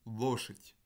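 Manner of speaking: "loshet" with the unstressed vowel reduced to a schwa. Shown as a demonstration. Lecturer showing Russian reduction to students, "loshet" with a schwa. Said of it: "où là vous avez un shfa".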